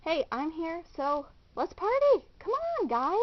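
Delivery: loud, high party hype; excited. Acted. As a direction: pump everyone up. Arriving at the party.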